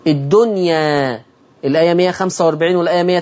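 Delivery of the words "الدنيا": الدنيا drawn out slowly; taqlil recitation. Shown as a demonstration. Teacher reciting the example slowly. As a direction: say الدنيا slowly, final alif leaning. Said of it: "في الفتح والتقليل".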